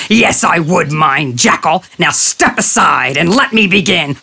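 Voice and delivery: a predator losing patience; curt tiger. Acted. Tiger character voice.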